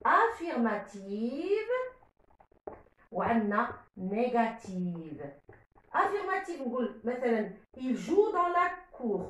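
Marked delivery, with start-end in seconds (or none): 0.1-5.2 slow listing. Shown as a demonstration.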